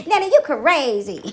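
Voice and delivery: slow, drawn-out playful teasing; imitated grandson. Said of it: "That's what he said".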